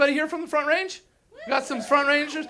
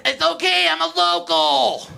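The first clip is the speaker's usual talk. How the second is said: higher, smug entitled local; 6 semitones higher, 3 dB louder than usual. Retold or imitated. Comic contrasting the Steamboat version of the line, smug local. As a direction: say it like it excuses everything. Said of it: "Here, it's".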